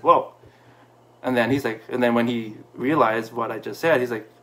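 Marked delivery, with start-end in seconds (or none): 0.0-0.3 stunned whoa. Retold or imitated. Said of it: "in his face, he said".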